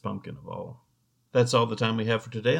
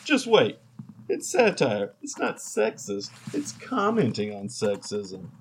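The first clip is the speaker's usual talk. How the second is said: defensive; slower than usual. Acted. Defensive husband.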